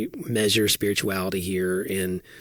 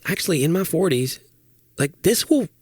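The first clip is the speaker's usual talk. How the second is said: musing realization; 5 semitones higher than usual. Retold or imitated. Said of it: "I'm starting to go".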